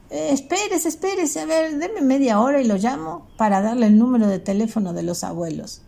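high, hurried call to wait; calling after him. Acted. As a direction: stop him before he walks off. Elvio calls the father back.

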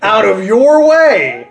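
laughing mock retort. Voicing Brad's retort.

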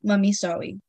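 a little kid's lisped apology, lightly mimicked; toddler saying sorry. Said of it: "she'll just come over and go".

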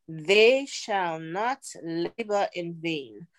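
slow, measured Bible verse; scripture recitation. Retold or imitated. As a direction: recite the verse with deliberate, drawn-out words.

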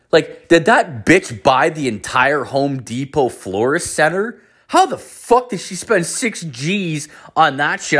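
can't believe the spending, pitch leaping up; incredulous outburst. Retold or imitated. Bystander reacting to six thousand dollars on flowers, incredulous.

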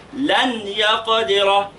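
لن يقدر with the ن fully pronounced before ي; clear nun. Shown as a demonstration. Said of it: "يبقى إظهار". (إظهار النون في "لن يقدر")

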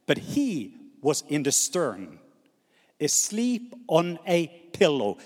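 measured, emphatic Bible reading; scripture reading. Acted. Preacher reading the Gospel to his congregation, measured and emphatic. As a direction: read it out in spaced, weighty phrases.

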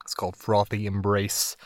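just after a sip of beer; while sipping a drink. Real, not acted. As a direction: talk right after swallowing a sip. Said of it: "Let me take a sip of this beer here".

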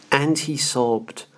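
"And he sobbed" slowed right down, each word weighted; slow, weighted repeat. Shown as a demonstration. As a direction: let "sobbed" land slowly and heavily. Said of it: "What a remarkable sentence".

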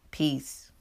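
a soft whispered goodbye; whispered sign-off. Real, not acted. Vlogger signing off to her viewers in a whisper. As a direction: breathe "Peace." softly as a send-off.

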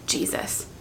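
a breathy unvoiced Jesus; Jesus whispered in pain; whispered name. Shown as a demonstration. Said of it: "give God an access point".

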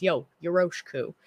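mock American accent, yoroshiku with an English R; American-accented Japanese. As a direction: imitate an American saying the Japanese word. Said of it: "perfect American accent for Japanese".

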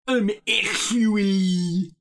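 high, drawn-out robotic imitation; robot know-it-all. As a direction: stretch it out like a smug robot. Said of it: "it's the robot version of".

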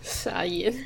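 hushed whispered reaction; quiet whispered disbelief. Real, not acted. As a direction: whisper it, stunned.

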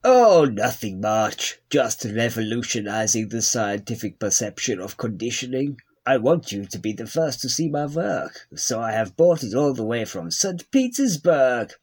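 lightly put-on foreign scientist voice; comic character voice. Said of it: "That's the new character I'm working on".

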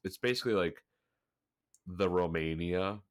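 blocked nose, stuffy voice; congested. Real, not acted. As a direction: talk through a stuffy nose. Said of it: "sorry if I sound congested this week".

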